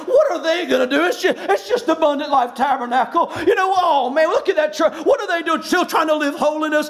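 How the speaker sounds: imitating church critics, lightly scoffing; a touch of mock disdain, put on; sarcastic mockery. Critics look at that church and scoff, mildly sarcastic. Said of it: "They wanna mock and sarcastically saying".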